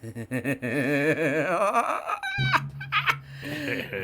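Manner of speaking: slow sinister chuckle; a ghostly laugh in the dark; creepy villain laugh; eerie laugh. Acted. Spirit laughs.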